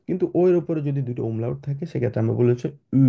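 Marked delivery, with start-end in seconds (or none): 2.9-3.0 উ as German ö, lips tightly rounded. Shown as a demonstration. Teacher showing o with umlaut, উ rounded like ö. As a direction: round the lips fully and hold উ. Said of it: "একদম ঠোঁটটা গোল থাকবে".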